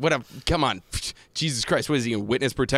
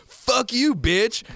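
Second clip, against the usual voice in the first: mock yell; 10 semitones higher, much slower than usual. Retelling the boyfriend in the Vimeo short, mock yell. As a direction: snap it like the cartoon boyfriend. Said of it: "And he just goes".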